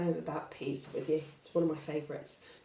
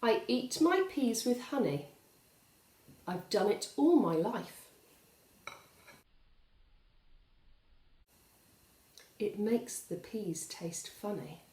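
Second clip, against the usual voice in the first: poem reading. Acted. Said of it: "It goes like this".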